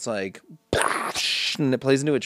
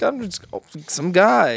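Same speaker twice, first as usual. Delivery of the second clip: high goofy voice; 6 semitones higher than usual. Retold or imitated. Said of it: "He's like".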